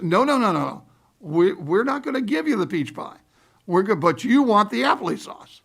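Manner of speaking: mock waitress refusing, firmly insisting; insistent waitress. Waitress voiced in retold story.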